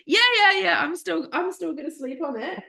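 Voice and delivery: laughing through tears. Retold or imitated. Laughing, crying answer.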